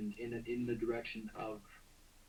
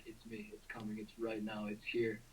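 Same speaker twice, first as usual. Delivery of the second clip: softly retold thought, much quieter; hushed inner voice; 5 dB quieter than usual. Caller retells sensing her line would open, hushed. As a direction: drop to a small voice for the quoted thought. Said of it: "and I'm like".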